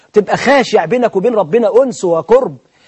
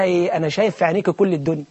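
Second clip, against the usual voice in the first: softer, dreamy lover's line; mock lovestruck whisper-soft; 6 dB quieter, faster than usual. Young man softly tells the girl he sees the world. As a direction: sigh it out like a smitten suitor. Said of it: "فبيبص في عينيها كده ومسبل".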